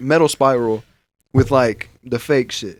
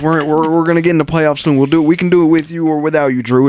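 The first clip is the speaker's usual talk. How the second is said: lightly higher fawning coach voice; mocking coach; 4 semitones higher than usual. Mocking coach babying star player Drew, fawning. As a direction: coo at Drew like a doting coach. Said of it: "They were like".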